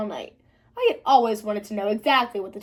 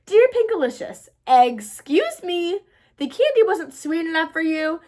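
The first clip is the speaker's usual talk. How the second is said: bunny letter voice; 4 semitones higher, 3 dB louder than usual. Acted.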